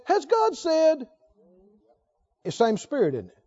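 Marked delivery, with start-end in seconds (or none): 0.1-1.1 slow, drawn-out questioning; defiant question. Retold or imitated. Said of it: "Is it the same tone as".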